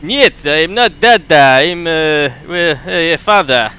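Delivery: put-on light Russian accent with broken grammar; Soviet accent. Grumpnik reading the chart for comrade, light Russian accent. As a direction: stay in the comrade role. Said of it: "Soviet sound voice".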